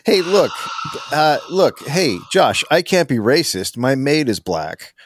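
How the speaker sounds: mock clueless racist. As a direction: play the oblivious racist defending himself, the last line slow.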